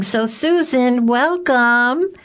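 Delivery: bright, warm smiling welcome. Real, not acted. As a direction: greet her with a smile you can hear. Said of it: "I could hear the smile in your voice".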